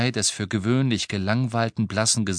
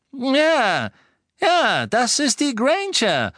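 high, loud, drawn-out exclamation; excited shout; 6 dB louder, slower than usual. A narrator's reading. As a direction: cry out in excited confirmation. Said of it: "rief Lucius". (aufgeregt rufend, laut und hoch)

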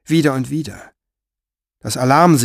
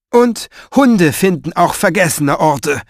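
sharp and louder snap; snapping at the boy; 5 semitones higher, 5 dB louder than usual. Acted. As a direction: bite the boy's head off. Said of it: "fuhr er den Jungen an". (scharf anfahrend)

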